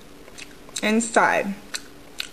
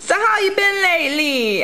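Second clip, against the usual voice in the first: chatty aside; 9 semitones higher than usual. Real, not acted.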